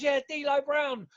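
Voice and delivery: fan recognising D'Lo, mock excited; fan in the street. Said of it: "Someone goes".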